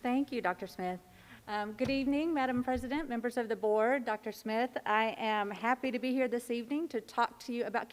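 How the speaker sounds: muffled speech behind a mask; talking through a face mask. Real, not acted. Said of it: "can you hear me okay with the mask on?".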